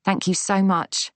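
warmly grateful; fond gratitude. A narrator's reading. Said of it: "in a rush of fondness towards her".

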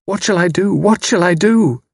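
anguished outcry before weeping; cried out. A narrator's reading. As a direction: cry it out in despair, the repeat climbing. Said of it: "She cried out".

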